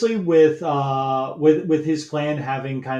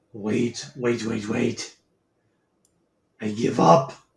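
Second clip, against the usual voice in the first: put-on villain character voice; 3 semitones lower than usual. Voicing a cornered villain who begs to surrender: put-on character voice for cornered villain. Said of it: "let me get a voice for this guy".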